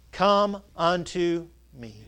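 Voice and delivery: low, hushed and slow, each phrase left hanging; hushed tender invitation. Acted. Preacher voicing Jesus inviting the weary, hushed and slow. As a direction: soften right down as if inviting one weary person.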